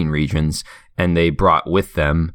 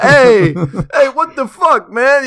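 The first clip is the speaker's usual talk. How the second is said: loud, high-pitched indignant Italian caricature; comic Italian protest, way up high; mock Italian outrage; 6 dB louder, much slower than usual. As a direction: play an outraged Italian, hammed up. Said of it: "Italians are like".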